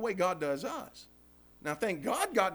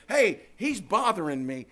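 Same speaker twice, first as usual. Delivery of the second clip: put-on tattling kid; 8 dB louder than usual. Siblings running to big brother.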